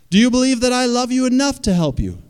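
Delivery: big, high, booming call from above; voice from the sky. Acted. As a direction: call down loudly like God from the heavens. Sky voice questions the man again.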